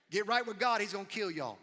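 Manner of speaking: shouted warning, pitched high and loud; fiery prophet shout. Acted. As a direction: bellow it at the whole city like a wild-eyed prophet. Jonah preaching to Nineveh again.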